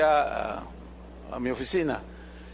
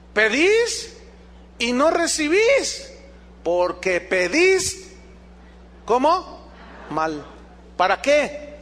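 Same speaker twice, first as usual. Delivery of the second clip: leer la Escritura con énfasis solemne y pausado; lectura bíblica. Acted. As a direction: proclamar el versículo ante la congregación. Lectura enfática de Santiago. (lectura solemne de la Escritura)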